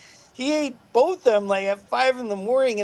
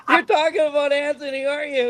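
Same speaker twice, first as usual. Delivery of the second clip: high, quick, laughing; amused question; 5 semitones higher, faster than usual. Retold or imitated. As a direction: ask it grinning, barely holding laughter. Teasing question to cop.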